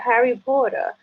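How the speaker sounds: "Harry Potter" with a Spanish accent, trilled r; second try at "Harry Potter" in her accent; Spanish-accented name. Shown as a demonstration. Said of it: "it's not gonna come out right".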